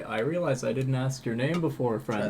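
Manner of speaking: put-on slightly slurred drunk speech; drunk slurring. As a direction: slur the words a little. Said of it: "I'm slightly slurring my words".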